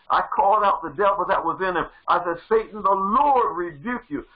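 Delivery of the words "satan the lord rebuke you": rising into a loud commanding cry; loud deliverance command; forceful rebuke. Retold or imitated. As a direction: cast the devil out with full force. Casting out the devil.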